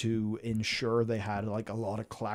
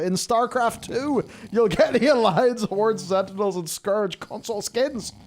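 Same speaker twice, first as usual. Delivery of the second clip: rising, higher and louder as the list goes on; giddy excitement; 7 semitones higher, 4 dB louder than usual. Real, not acted. Streamer reading out game perks, climbing into a high excited shout. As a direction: build from eager to a shouted peak.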